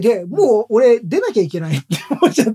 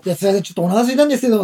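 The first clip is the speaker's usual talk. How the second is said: 1 fast robot complaint; much faster than usual. Pretend. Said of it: "とか言われたら嫌じゃん".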